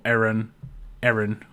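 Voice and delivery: Erin, opening on an E as in "air"; American pronunciation. Shown as a demonstration. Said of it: "you Americans say Erin Erin".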